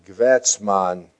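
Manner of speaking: "Gewätzmann" said slowly as KVATS-mahn, hard German k-v start; imitating Kissinger saying "Gewätzmann" the German way, slow and loud; German pronunciation of his name. Reporter imitating Kissinger's German way of saying "Gewätzmann". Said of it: "the way a German would pronounce my name".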